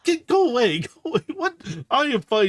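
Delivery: high, cross little voice; a small bot shrugging off a clingy pet; annoyed robot. Acted. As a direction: shove the words off, irritated. Aegis shaking off Scamper.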